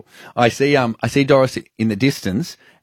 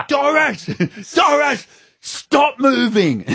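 high-pitched urgent holler, slowing at the end; calling out; slower than usual. Retold or imitated. Stopping deaf Doris as she walks off, calling out. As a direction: call her to a halt in a high voice.

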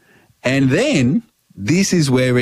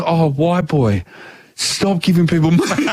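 amused scolding; 3 semitones higher than usual. Retold or imitated. Barman laughing at the naive customer, an amused scolding.

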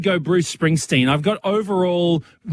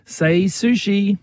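drawn-out joke; 3 semitones higher, much slower than usual. Pretend. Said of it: "I was trying to do".

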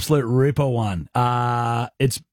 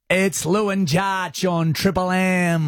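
very slow, stretched-out station ident; commentator voice; 3 semitones higher, much slower than usual. Acted. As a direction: draw out each word like a commentator. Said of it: "You sound like a commentator".

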